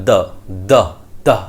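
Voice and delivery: "the" as a short "duh"; short article. Shown as a demonstration. Teacher demonstrates how the article is pronounced, short. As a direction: cut "the" to a quick weak vowel. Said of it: "দায়ের উচ্চারণটা এইভাবে হয়".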